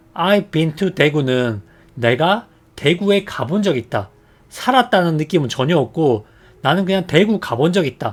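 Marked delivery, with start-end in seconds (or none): none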